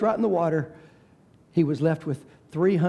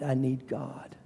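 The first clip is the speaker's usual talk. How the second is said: much softer repeat of I need God; soft echo; 4 semitones lower, 8 dB quieter, slower than usual. Real, not acted. Preacher repeating his plea softly to himself. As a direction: let it fall away to near silence.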